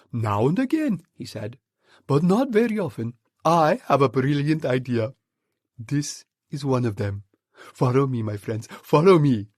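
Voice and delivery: rally the troop with firm excitement; the monkey father calming his family; Mugglewump's voice. Acted.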